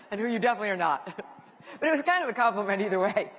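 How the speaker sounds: laughing through the words. Real, not acted. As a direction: let a real laugh spill over the line. Laughs at her own story.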